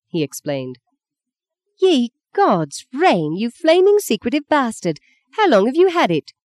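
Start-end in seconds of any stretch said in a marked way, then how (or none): 1.8-6.3 much higher, sputtering fury; furious at his secret; angry outburst. Acted. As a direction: spit it at him, too angry to speak. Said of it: "She was so angry she couldn't speak properly".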